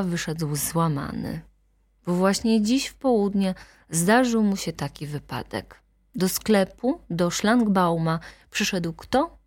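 ordinary delivery

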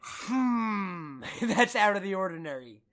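laughing. Retold or imitated. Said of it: "there's something about it where you're like".

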